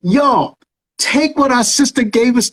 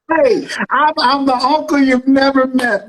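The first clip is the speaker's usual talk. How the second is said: normal talking voice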